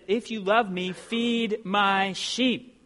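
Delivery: very slow, weighty admonishment, word by word; measured, emphatic command; admonishing. Acted. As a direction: solemnly charge him, drawing out each word. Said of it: "admonishes him and said".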